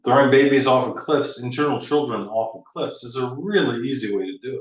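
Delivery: wry humor with a little teasing and joy; pleased and gently provocative; proud, wry teasing. Real, not acted. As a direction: say it with proud, playful relish. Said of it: "You say that proudly? Is that what's in your voice?".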